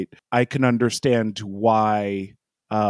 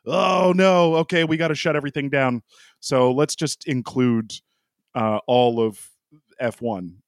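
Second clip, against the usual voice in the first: a hint of panicked bureaucrat; panicked official. Voicing Northern Italy.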